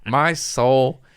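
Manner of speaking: laughing through the words; words spill out in a real laugh. Real, not acted. Telling a friend about the TSA prank, laughing.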